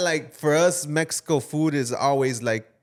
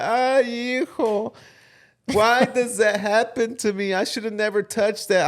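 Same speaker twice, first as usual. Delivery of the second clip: much higher, plaintive mom voice with a laugh; imitating crying mom; 7 semitones higher than usual. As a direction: mimic his distraught mother wailing over the broken horns. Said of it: "my mom was, like, bawling".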